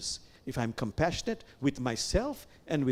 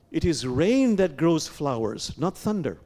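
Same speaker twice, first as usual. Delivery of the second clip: firm proclamation; 3 dB louder than usual. Shown as a demonstration. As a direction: proclaim the Rumi line with full voice. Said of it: "Lower your voice".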